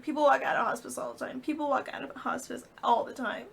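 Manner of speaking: high-pitched, strained repeating; repeated insistence. Retold or imitated. Mom repeating it to her daughter, desperate insistence. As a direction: keep insisting, clinging to hope. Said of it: "she said it, like, five times".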